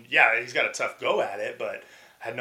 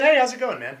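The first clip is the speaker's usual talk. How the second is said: cheery greeting; 11 semitones higher, 5 dB louder than usual. Retold or imitated. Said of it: "You know, typical".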